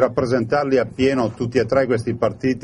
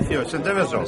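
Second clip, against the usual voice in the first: Venetian dialect; 4 dB quieter than usual. Real, not acted. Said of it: "Adesso si può parlare in veneto qua".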